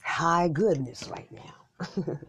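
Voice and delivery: breathy giggling whisper; giggly whisper. Real, not acted. Giggly high aside.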